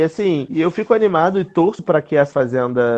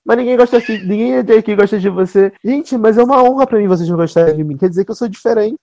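lightly acted reality-show exchange, pitched up; higher-pitched imitation, a touch mock-indignant; Luz Chiavini re-enactment; 5 semitones higher than usual. Host re-enacting a remembered reality-show argument, lightly hammed-up imitation. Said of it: "a Luz Chiavini, lembra?".

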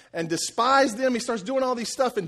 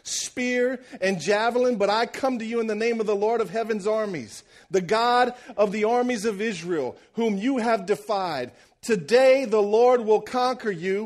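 trash talk; 3 semitones higher than usual. Acted. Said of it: "David comes out and talks some real trash".

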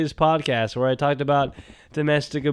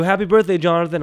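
imitating callers; 6 semitones higher, 5 dB louder, faster than usual. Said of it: "They go".

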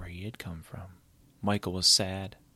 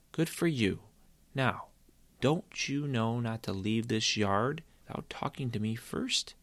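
lightly voiced scolding mom; 2 semitones higher than usual. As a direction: praise him, then remind him of the rule. Mother scolds son.

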